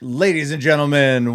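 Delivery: slow, grand showman intro; announcer voice. Pretend. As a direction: announce it like a host. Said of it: "I don't know why I did that".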